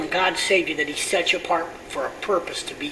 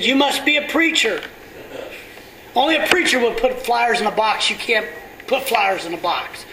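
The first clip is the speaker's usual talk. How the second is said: teasing stranger; 6 semitones higher than usual. Retold or imitated. Pastor imitating the stranger teasing him as a preacher, raised mock voice. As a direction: rib the preacher like the stranger did.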